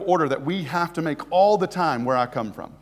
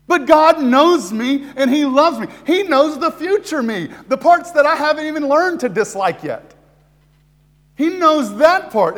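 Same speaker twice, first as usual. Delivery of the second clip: higher, louder, driving sermon voice; preaching at full force; 9 semitones higher, 7 dB louder than usual. Acted. Preacher to his congregation about God's love, fervent and loud. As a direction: lift the room, press every line home.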